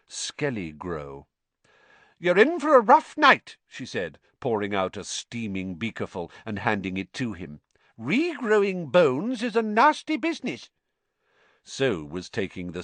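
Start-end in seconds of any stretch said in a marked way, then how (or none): 2.2-10.7 stern matron voice. Acted. Matron gives bitter medicine.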